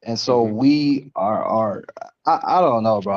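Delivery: slow, spaced-out high speech; stoned. Real, not acted. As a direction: drift through it slowly. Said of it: "I'm really high right now".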